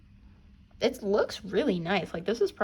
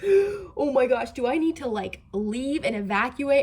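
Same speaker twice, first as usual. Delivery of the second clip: gasp, then higher, louder alarmed outburst; retold panic; 3 semitones higher, 7 dB louder than usual. Vlogger re-enacting earthquake panic for viewers, alarmed. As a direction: act out a gasping mild panic.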